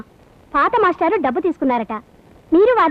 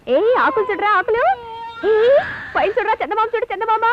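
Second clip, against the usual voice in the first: coaxing; 6 semitones higher than usual. Acted. Mother distracting the baby.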